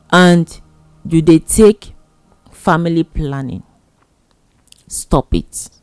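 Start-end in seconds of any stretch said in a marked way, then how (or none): none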